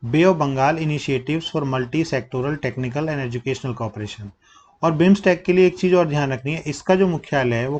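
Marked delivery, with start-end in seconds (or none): 0.0-4.3 slow, word by word full form; slow dictation. Shown as a demonstration. Teacher reading the full form to class, slow and deliberate. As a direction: spell it out slowly for students to note. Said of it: "क्या है?".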